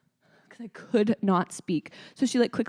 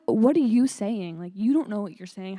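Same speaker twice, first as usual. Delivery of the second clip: louder, hammed-up bafflement; mock exasperation; 5 dB louder than usual. Student baffled by a Pilates instructor, mock exasperated. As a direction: act out being baffled by the teacher.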